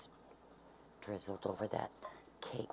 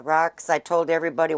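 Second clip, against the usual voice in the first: loud, raised call to someone off camera; 7 semitones higher, 13 dB louder than usual. Real, not acted. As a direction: pitch it up and project. Calling out to Rox off camera.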